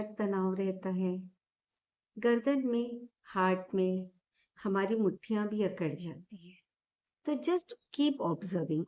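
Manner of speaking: calm, gently softened meditation guidance with long pauses; guided meditation. Real, not acted. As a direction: guide listeners gently into noticing breath and body.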